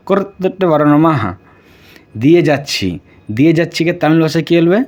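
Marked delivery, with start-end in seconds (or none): 0.1-1.1 কুর্তুটে with a firm doubled retroflex ট, then বারানো মা rising; careful pronunciation. Shown as a demonstration. Teacher showing students the Tamil pronunciation carefully. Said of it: "উচ্চারণ দেখো".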